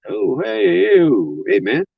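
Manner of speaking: drawn-out greeting, high then easing down; careful calm. Retold or imitated. Driver greets a man whose veins are popping, retold careful calm. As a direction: imitate someone placating an angry man. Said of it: "Calm, because I could see the veins".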